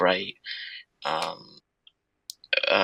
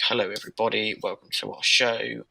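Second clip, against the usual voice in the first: show host greeting. Shown as a demonstration. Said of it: "this is the tone that I would speak with".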